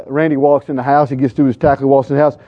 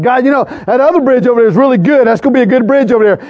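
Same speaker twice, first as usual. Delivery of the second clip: higher, hurried bargaining; lightly acted pleading with God, pitched up; mock pleading; 6 semitones higher than usual.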